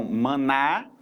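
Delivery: "manar" with an open final "a"; open vowel sound. Shown as a demonstration. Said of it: "som aberto".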